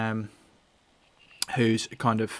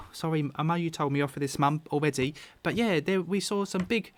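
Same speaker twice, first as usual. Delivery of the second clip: put-on Carp, young boy; 4 semitones higher than usual. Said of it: "And Carp pipes up".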